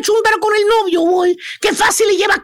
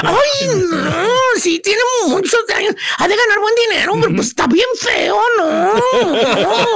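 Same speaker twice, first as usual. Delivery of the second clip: imiter une femme qui fait la difficile; bien especial. Retold or imitated. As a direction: jouer la chipoteuse, avec des « non » traînés. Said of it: "bien especial".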